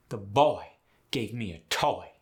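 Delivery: put-on Southern "boy" stretched to a oi; Southern exaggerated oi; Southern accent. Shown as a demonstration. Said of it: "in the South would be".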